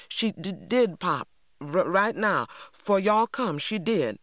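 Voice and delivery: put-on stuttering scared boy; nervous stammer. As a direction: stumble over the words in fear. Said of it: "Jeremy seemed relieved".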